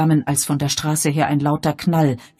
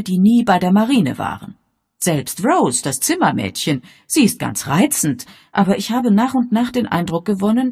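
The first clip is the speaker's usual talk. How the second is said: higher, louder lady, animated and insistent; Miss Marple; 5 semitones higher, 6 dB louder than usual. A narrator's reading. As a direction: lay out each suspicion emphatically, pitched up. (hohe, lebhafte Damenstimme, eindringlich)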